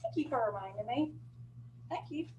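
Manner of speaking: muffled behind a mask; through a face mask. Real, not acted. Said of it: "so hard to hear me with my mask on".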